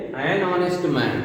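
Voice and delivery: an honest man spelled out slowly, each word apart; slow demo. Shown as a demonstration. Teacher slowly models the phrase for students, deliberate and slow. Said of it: "यहाँ हम क्या लिखेंगे".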